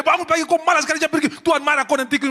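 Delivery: very loud, high, fast scolding; scolding parent. Retold or imitated. Parent yelling at a lazy child to go to church, loud and fast. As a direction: nag the child loudly and fast.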